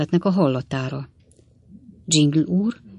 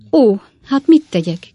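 louder, higher cry of despair; desperate cry; 6 semitones higher, 8 dB louder than usual. A narrator's reading. Spinster aunt to the suitor, crying out in despair. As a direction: cry out helplessly, near tears. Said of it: "kiáltott fel szegény Rachel".

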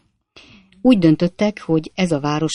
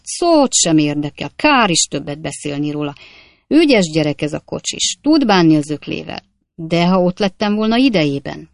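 brisk, choppy braggart voice, louder; boastful Jingle; 4 dB louder than usual. Acted. Stranger brushing off the coachman fight, boastful rattle.

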